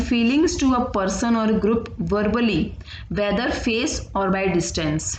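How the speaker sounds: very slow definition read for note-taking; slow dictation. Acted. Teacher to students, slow dictation read. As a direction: read it out slowly so the class can write.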